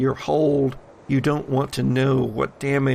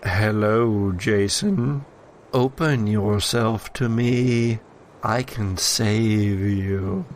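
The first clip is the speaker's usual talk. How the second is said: lightly voiced sinister entity. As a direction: lure him in gently, menacingly. Entity in satchel tempts Jason.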